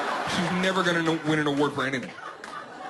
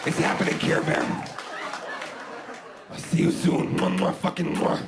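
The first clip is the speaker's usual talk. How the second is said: giggly late night call; 10 semitones lower than usual. Pretend. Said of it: "giggly late night call".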